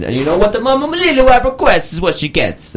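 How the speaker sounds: high theatrical squeal; high mock voice. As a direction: pitch it way up, teasing. Mock dramatic line.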